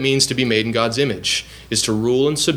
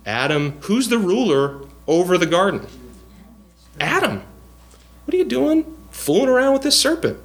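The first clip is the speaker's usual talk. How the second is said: calling out to Adam; 9 semitones higher than usual. Pretend.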